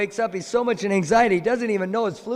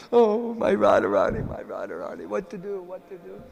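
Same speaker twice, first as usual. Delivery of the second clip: sighing, fading lament for his beloved; a lovesick hero's mild mock despair; anxious lament. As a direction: pine for her until the words die away. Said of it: "as he's in his anxiety".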